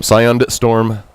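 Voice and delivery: slowed, spelling out the D; each word slow and careful, Scion D Storm; slow correction. Shown as a demonstration. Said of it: "I'm sorry".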